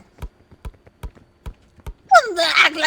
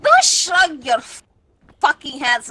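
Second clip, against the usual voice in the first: angry shout; 3 semitones higher, 9 dB louder, slower than usual. Pretend. Mock quarrel with friend.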